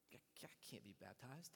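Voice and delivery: retold whisper, hushed and low; whispered worry. Wife confiding to her pastor husband, whispered worry. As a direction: whisper it like a secret in church.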